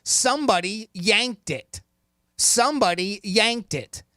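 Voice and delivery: slow, deliberate quote reading; slow quiz reading. Shown as a demonstration. Host reading the quiz quote to Sadie, slow and deliberate. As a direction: read slowly for the caller. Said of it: "Here is your quote".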